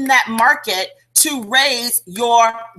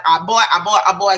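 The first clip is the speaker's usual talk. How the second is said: a hint of a blustering rooster, pitched down; Foghorn Leghorn; 5 semitones lower, faster than usual. Imitating a cartoon rooster for sales agents, lightly lowered voice. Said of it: "I'm gonna do my impersonation".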